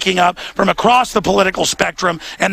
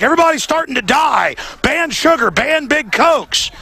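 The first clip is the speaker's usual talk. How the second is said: higher-pitched mimicry of alarmists; mock alarm; 5 semitones higher than usual. Host mimics sugar-ban advocates, in mock alarm. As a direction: imitate hysterical campaigners, pitched up.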